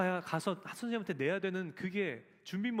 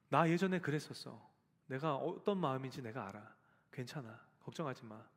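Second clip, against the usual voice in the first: gentle comfort; 4 semitones lower than usual. Pretend. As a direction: soothe them like someone who's been there. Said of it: "입이 닳도록 여러분 위로해 주시고".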